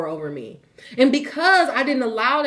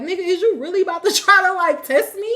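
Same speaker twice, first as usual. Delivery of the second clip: raised, quick, incredulous challenge; half-laughing confrontational retort, pitched up; challenging; 7 semitones higher, 4 dB louder than usual. Retold or imitated. Storyteller replaying staring down a stranger, challenging.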